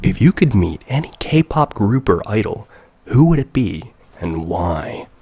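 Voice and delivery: reading a viewer's question as a host into the mic; into the mic announcer read. Shown as a demonstration. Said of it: "I should say it like this".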